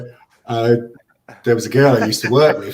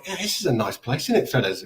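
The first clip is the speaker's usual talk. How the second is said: feigned cheeriness; 3 semitones higher, 4 dB quieter than usual. Retold or imitated. Awkward small talk amid hostile chanting.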